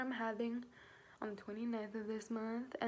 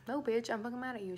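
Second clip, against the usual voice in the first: retold mad retort, a bit louder; mildly angry snap back, imitated; 5 dB louder, faster than usual. Retelling an angry reply to her "thanks", mildly mad. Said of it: "She was so mad at me".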